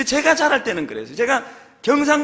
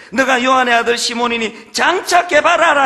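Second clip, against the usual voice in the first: proclaiming Jesus' words; 2 semitones higher, 7 dB louder than usual. Acted. Jesus quoted from scripture.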